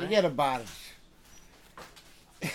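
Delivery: put-on slow, drawn-out New York accent. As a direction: stretch it out like an old Queens guy. Mush's classic Queens catchphrase.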